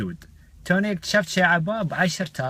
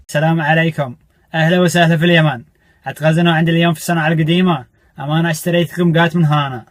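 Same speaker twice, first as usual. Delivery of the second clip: loud, hearty Yemeni greeting; Yemeni dialect; 3 semitones higher, 10 dB louder than usual. Pretend. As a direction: boom it out in a Yemeni accent. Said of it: "شفتوا واحد أمريكي يتكلم يمني".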